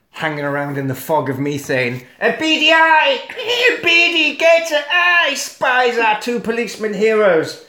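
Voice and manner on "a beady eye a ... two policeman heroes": high, booming storyteller; hammed-up scene setting, pitched high; mock-dramatic narration. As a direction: swell it up like a melodramatic narrator. Dramatic retelling of film scene.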